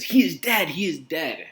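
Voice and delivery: sudden loud, high cry of grief; the nurse breaking terrible news with a wail; hammed-up grieving nurse. Nurse's dramatic announcement, voiced.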